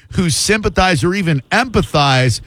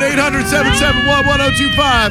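phone number in a high, put-on southern accent; hammed-up southern radio plug; 9 semitones higher than usual. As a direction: call out the number like a southern shock jock. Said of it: "I'm talking with a southern accent".

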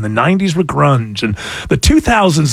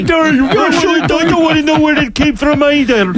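mock stammer; 9 semitones higher than usual.

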